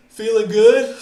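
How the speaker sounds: loud, high, upbeat morning greeting; excited. Real, not acted. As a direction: call it out bright and eager. Cheery greeting to stream audience.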